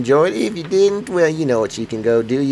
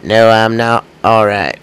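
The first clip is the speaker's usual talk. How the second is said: his gloomy reply; 2 semitones lower, 7 dB louder than usual. Retold or imitated. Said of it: "people are like".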